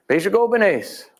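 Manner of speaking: high, ringing call of the name; ceremonial name call. Shown as a demonstration. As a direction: call the hunter's name as you offer food. Ritual offering, name called again.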